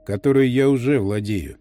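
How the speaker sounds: soft rustling tree voice. Acted. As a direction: let it rustle out, toneless. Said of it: "прошелестел бесцветный голос Блинка". (шелестящий бесцветный голос)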